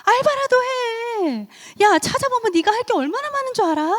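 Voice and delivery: loud, high-pitched nagging elder; exasperated grown-up's shouted scolding. Acted. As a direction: berate an idle youngster, stretching phrase ends. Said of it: "주변의 어른들이 뭐라고 얘기했을 것 같아요".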